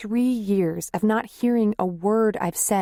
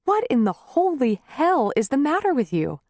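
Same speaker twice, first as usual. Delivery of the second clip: angry tirade; 5 semitones higher than usual. Acted.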